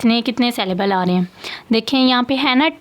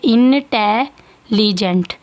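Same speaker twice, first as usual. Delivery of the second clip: slow syllable demo; much slower than usual. Shown as a demonstration. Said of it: "और ये वाले ई की भी निकली है".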